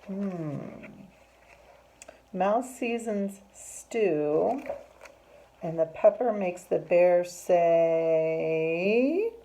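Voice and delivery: slow, stretched words building suspense; suspenseful story reading. A narrator's reading. Teacher leaves children guessing what bear says, slow suspenseful reading. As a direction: hold out the last word like a cliffhanger.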